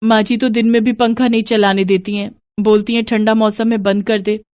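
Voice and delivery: lightly voiced daughter-in-law; young daughter-in-law. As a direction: answer the mother-in-law sweetly.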